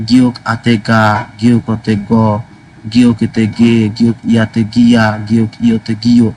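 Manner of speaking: slow teacher drill, গিয়ক আতে গা spelled out; slow Korean syllable drill, গা গ গে each clearly pronounced. Shown as a demonstration. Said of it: "চেষ্টা করবেন যে স্বরবর্ণগুলো আছে".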